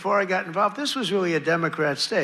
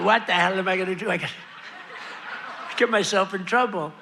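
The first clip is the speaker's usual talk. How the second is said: laughing; faster than usual. Retold or imitated. Joking about makeup on suit.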